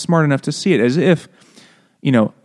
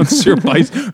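mock French; 9 semitones higher, 4 dB louder than usual. Mock French correction of name.

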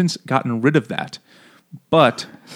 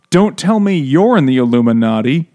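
mock astonishment; 5 dB louder than usual. Acting out her clueless suspicion.

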